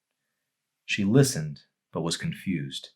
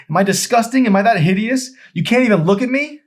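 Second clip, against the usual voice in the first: much higher, much louder wounded cry; a young woman's anguished, tearful outburst; Emery anguished; 13 dB louder than usual. Acted. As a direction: cry out as if deeply hurt.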